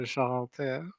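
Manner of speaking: "Joroté" with a soft zh and French r; hesitant French demonstration of "Joroté"; French pronunciation. Shown as a demonstration. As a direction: model "Joroté" in French for a learner. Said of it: "Do it one more time".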